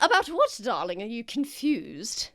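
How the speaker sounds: noble lady voice. Acted. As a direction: ask it like a doting grand lady. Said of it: "Lady Gwynth voiced".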